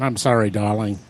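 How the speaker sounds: Australian romantic apology. Acted. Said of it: "Especially in romantic situation".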